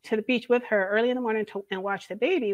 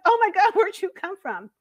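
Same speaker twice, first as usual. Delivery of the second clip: high, louder retold startle; startled surprise; 9 semitones higher, 5 dB louder than usual. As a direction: re-enact being caught off guard. Retells being startled by daughter's arrival.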